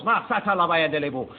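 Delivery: speaking in tongues. Retold or imitated. Preacher reenacting his tongues to the congregation, fervent and flowing. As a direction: pour out unknown words as if seized by the Spirit. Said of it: "I cannot stop the words".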